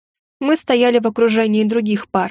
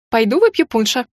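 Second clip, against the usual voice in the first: squeaky; 2 semitones higher than usual. A narrator's reading. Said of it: "пискнула леди Силия".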